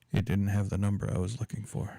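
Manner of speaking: acted, bone-dry, matter-of-fact flat monotone. Recounting a man's reply after chopping up a phone book, retelling a deadpan line. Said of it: "just deadpan".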